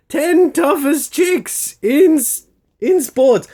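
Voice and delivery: high, laughing read-out; laughing disbelief. Real, not acted. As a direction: laugh at the headline as you read. Reads magazine headline in disbelief.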